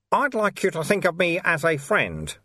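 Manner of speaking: put-on sly, amused older man; dry knowing voice. A narrator's reading. Mysterious voice.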